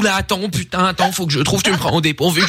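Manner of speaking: lightly mocked dithering colleague; mock earnest panic. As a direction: imitate her taking it seriously, flustered. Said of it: "L'autre, elle est premier degré, elle fait".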